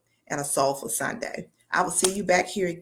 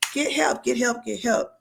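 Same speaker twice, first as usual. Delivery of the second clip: urgent plea; 5 semitones higher than usual. Real, not acted. Urging listeners to seek help.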